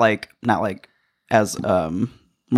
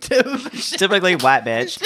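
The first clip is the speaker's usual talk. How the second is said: mock valley girl voice; 6 semitones higher, slower than usual. Mocking a stereotype label.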